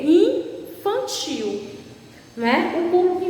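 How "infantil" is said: drawn-out answer. Shown as a demonstration. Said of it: "O público o quê?".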